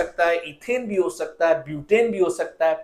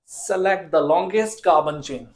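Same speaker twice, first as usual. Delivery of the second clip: slow dictation; 2 semitones lower, much slower than usual. Shown as a demonstration. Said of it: "teacher repeats rule for emphasis".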